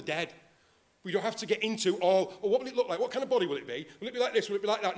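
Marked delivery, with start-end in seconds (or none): 2.4-5.0 higher-pitched mock curiosity; mock fussing. Preacher mimicking needless questions about the resurrection body, mock fussing. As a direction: parody someone pestering with eager questions.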